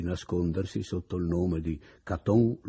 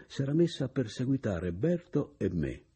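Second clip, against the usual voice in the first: plain reading voice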